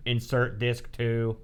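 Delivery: slow, even robotic monotone. Shown as a demonstration. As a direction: speak like a machine announcement. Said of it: "That's my robot voice".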